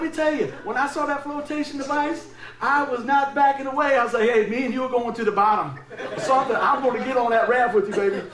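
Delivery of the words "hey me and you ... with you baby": laughing plea. Retold or imitated. Quoting himself grabbing the raft.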